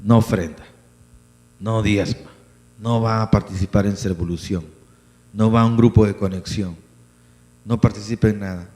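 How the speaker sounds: ordinary talk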